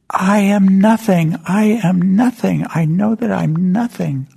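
high, loud, slow anguished cry; yelled out. Retold or imitated. Janitor on his knees crying out to the hall, loud slow yell. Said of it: "he yelled out".

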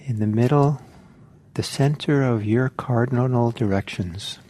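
spacious, measured instructions with room to breathe; guided meditation. Real, not acted. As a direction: calmly guide listeners into settling, phrase by phrase.

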